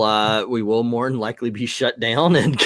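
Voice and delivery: laughing through the words; half-laughing at their own joke; chuckling while joking about being shut down. Real, not acted.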